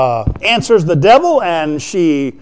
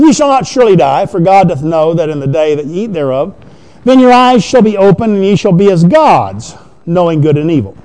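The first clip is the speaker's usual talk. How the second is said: louder, forceful pulpit declamation of the serpent; serpent declaiming; 5 dB louder than usual. Acted. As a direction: proclaim the lie boldly from the pulpit. Preacher voicing the serpent's lie.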